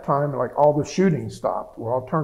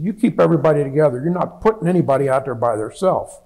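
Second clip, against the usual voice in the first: firm imitation of a dressing-down; mildly scolding, as a retold reprimand; retold chewing out; 4 dB louder than usual. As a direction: imitate a commander laying down the law. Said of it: "he starts chewing out the lieutenant".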